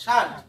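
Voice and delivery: শান্ট as one short syllable; pronunciation demo. Shown as a demonstration. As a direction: model শান্ট with no l sound. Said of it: "উচ্চারণ কি হবে?". (শান্ট এক সিলেবলে উচ্চারণ)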